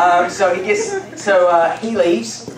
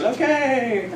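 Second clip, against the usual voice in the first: reluctant Moses; 5 semitones higher than usual. Retold or imitated. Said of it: "Moses goes".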